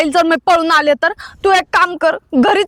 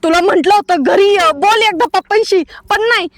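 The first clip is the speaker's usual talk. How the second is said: a bride berating her timid lover; angry reproach. Acted. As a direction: throw his cowardice back at him. Bride accuses lover of cowardice.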